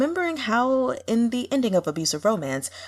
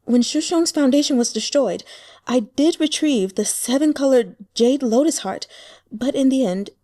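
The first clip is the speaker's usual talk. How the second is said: put-on anguished young woman; 5 semitones higher, 4 dB louder than usual. Heroine agonizing over her love.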